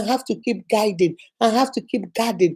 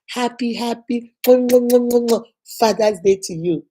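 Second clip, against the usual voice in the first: warm greeting; much slower than usual. Real, not acted. Preacher greeting fathers slowly.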